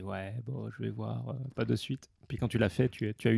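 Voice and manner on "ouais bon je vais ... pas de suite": imitation molle et réticente, nettement plus bas en volume; réticence imitée. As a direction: rejouer tout doucement un ami qui traîne des pieds. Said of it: "Et toi, tu disais". (réticence imitée, à voix faible)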